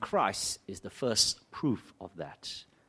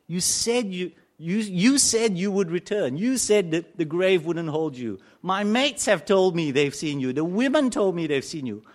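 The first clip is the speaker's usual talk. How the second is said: Thomas pleading; 3 semitones higher, 3 dB louder than usual. Acted. Preacher voicing Thomas's remorse.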